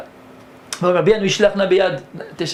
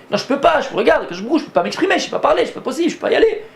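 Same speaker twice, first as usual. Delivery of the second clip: Moses pleading; 7 semitones higher, faster than usual. Acted. Moses pleading with God, acted.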